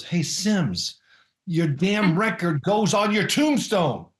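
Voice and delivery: a hint of a gruff old coach, slow and firm; imitating Bill Parcells. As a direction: lay down the law like a veteran coach. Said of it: "and he goes".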